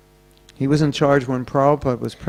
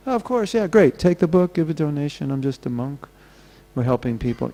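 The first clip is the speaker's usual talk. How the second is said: eager salesman pitch. Retold or imitated. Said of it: "they know how to sell books".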